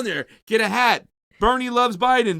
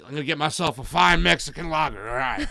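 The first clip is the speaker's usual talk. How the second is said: Crow voice; 3 semitones lower than usual. Retold or imitated. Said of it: "can I do it in Crow voice?".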